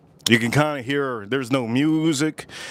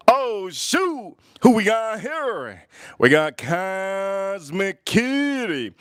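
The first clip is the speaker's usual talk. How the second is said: surprised; 5 semitones higher, much slower than usual. Real, not acted. Surprised to spot a viewer.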